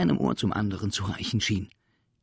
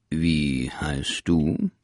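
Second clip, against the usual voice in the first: stern teacher; 4 semitones lower, 6 dB louder, much slower than usual. Acted. Strict teacher questions new pupil.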